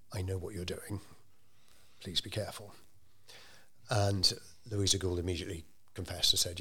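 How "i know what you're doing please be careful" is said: on the quiet. Retold or imitated. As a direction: warn her quietly so no one overhears. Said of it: "said to her on the quiet".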